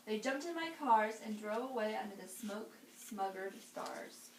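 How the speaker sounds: put-on lively read-aloud for children; storybook reading. A narrator's reading. Reading to kids, lively storybook voice. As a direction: read it like bedtime story time.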